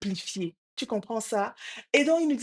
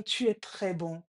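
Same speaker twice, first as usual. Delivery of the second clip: imitated echo; 4 dB quieter than usual. Voice repeats the father's praise, subdued echo. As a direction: hand the words back, a little quieter. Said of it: "Et la voix répond".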